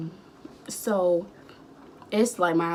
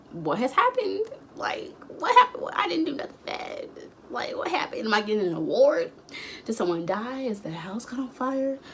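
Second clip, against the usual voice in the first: very high, rushed questions; panicked; 4 semitones higher than usual. Retold or imitated. Called to the office, she panics at her grandma, very high. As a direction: spiral into panicked guessing.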